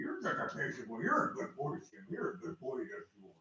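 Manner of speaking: whispered pet talk. Real, not acted. Whispering praise to cat Sam.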